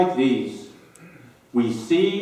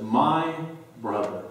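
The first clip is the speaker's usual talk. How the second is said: quiet grieving emphasis; 3 semitones lower, 5 dB quieter than usual. Retold or imitated. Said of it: "a stronger emphasis from Mary".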